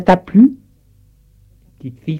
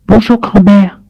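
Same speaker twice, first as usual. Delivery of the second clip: much higher, bright greeting; little girl voice; 8 semitones higher, 5 dB louder than usual. Acted. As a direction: play a small child saying hello. (voix de petite fille)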